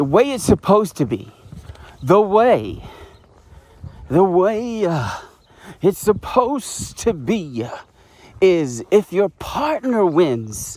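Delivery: out of breath. Speaker talking to viewers while walking downhill, out of breath. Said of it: "I can catch my breath".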